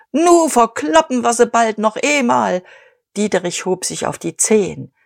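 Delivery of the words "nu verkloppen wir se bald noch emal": screeching. A narrator's reading. Kühnchen cheers at the veterans' table, screeching. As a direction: screech it, cigar waving. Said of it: "schwenkte seine Zigarre und kreischte".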